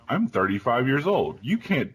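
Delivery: protest, then break off mid-sentence; mock-affronted dad, pitch climbing; retold protest.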